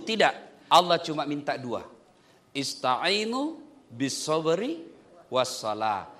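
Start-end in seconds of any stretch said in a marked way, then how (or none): 2.5-6.1 slow, low chanted Arabic; Quranic recitation. Acted. Preacher reciting a verse to his congregation, slow chant. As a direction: intone the verse slowly and reverently.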